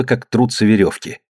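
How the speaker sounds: ordinary delivery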